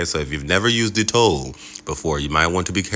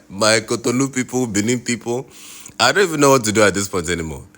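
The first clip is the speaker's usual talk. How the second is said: exasperated; 6 semitones higher, faster than usual. Real, not acted. Venting to his audience.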